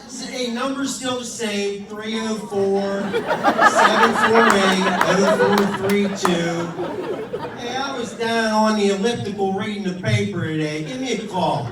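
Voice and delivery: playing his chatty father on the phone; imitating dad's voicemail. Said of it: "Be like".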